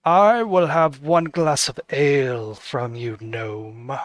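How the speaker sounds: the cloaked noble sneers his order at the gnome barkeep; haughty noble, corrected. Acted. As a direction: talk down to the gnome with cold disdain. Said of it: "he wouldn't say it like that".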